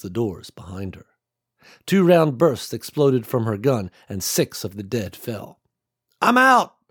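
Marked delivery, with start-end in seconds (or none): 6.2-6.8 called out. A narrator's reading. Sam calls out mid-firefight.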